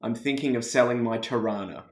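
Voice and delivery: easy Australian accent for someone to copy. Shown as a demonstration. Giving a Canadian guest one sentence to copy, Australian accent. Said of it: "tries to do the Australian accent".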